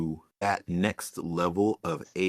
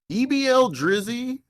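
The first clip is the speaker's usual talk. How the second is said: playful high voice; 4 dB louder than usual. Pretend. Names a viral AI song.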